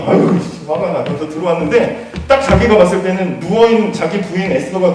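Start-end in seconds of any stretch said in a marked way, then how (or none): 0.1-1.0 a breathy, hissed swear under the breath; fuming mutter. Acted. King returns still fuming, muttering to himself. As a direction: grumble it to yourself, seething.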